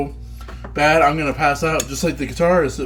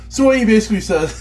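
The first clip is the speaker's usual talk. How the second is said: talking through laughter; fast, giggling words; laughing; 8 semitones higher, 6 dB louder, much faster than usual. Real, not acted.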